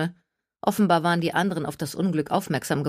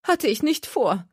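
high, sulky, slow retort; sulky Gertie; 9 semitones higher than usual. A narrator's reading. Gertie answering Jenna, high and sulky. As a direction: drag it out, annoyed.

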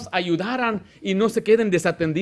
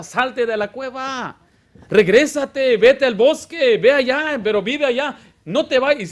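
prophet's command; 5 semitones higher, 6 dB louder, slower than usual. Acted. Prophet voiced calling David out.

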